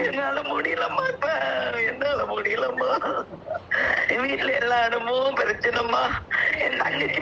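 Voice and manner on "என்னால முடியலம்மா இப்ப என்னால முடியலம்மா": anguished cry of despair; wailing that she cannot go on; real crying outburst. Real, not acted. Caller breaking down on air.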